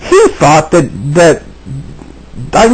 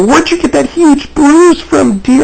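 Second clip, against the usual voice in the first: slow, much higher mock sugary voice; drawn-out fake concern, higher pitch; fake-sweet wife; 9 semitones higher, slower than usual. Husband mocking his wife's false worry over a bruise, slow and high. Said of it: "And she'd go".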